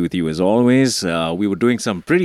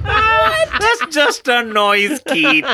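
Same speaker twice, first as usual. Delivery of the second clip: laughing; much slower than usual. Real, not acted. Laughing at listener attempt.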